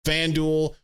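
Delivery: podcast host's upbeat sportsbook ad read. Acted. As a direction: sell the FanDuel promo like a radio spot. Sponsor ad read.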